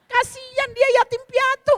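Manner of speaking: high, loud, drawn-out exclamation of pity; mock pitying wail. Pilgrim retells pitying an orphaned Indian helper, mock pitying wail. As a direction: cry out the pity, hammed up and slow.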